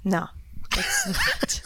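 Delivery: ordinary talk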